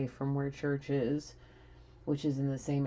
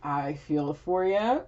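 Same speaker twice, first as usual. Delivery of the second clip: laughing; 3 dB louder, slower than usual. Real, not acted. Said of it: "I'm laughing because I don't know how else to react".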